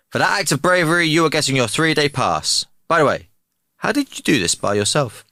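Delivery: major in a hammed German accent. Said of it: "That German accent was sensational".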